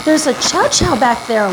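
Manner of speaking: high, eager call about the dog; retold excited call. A groomer calling her husband to see a stray chow, high excited call. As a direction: call him over, pitch up high and excited. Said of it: "I yell out to my husband".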